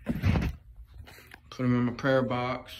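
drawn out very slowly, each word laid down; slow deliberate repeat. Real, not acted. Repeating it slowly to viewers for emphasis. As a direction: let it settle, half the speed. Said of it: "Put 'em in my prayer box".

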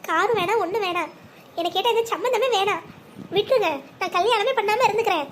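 tearful refusal. Acted. Sister tells brother to call off her wedding, tearful. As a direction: refuse through a touch of sobbing. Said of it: "அடியே முள்ள அழாதடி".

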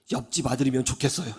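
low, soft, quick delivery; deadpan son's reply. Retold or imitated. Mother quotes her son wishing he were the neighbor's, subdued reply. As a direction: lightly imitate a son's subdued answer.

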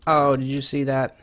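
loud, bright brag over a lucky catch; excited. Real, not acted. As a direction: crow about the catch. Catches plate midair, proud.

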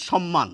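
সম্মান said as "shom-man"; sh and a doubled m in সম্মান; standard pronunciation. Shown as a demonstration. Teacher repeating what many say, সম্মান as "shom-man". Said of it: "প্রমিত উচ্চারণ".

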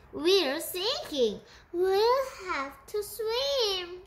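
high, slow, drawn-out wail; panicked squeal. A narrator's reading. Cat as the boat goes down, panicked squeal. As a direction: squeal each alarm out long and high. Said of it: "She squealed".

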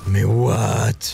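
outraged. Real, not acted. Outraged at boss.

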